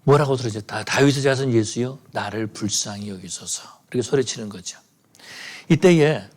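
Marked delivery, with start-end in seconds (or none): 0.7-3.6 a mildly raised plea, trailing off softer; retold cry for mercy. Blind beggar calling to passing Jesus, mild mock cry. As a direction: call out to Jesus, only half-voiced. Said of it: "이 바디메오가 소리 지르기 시작합니다".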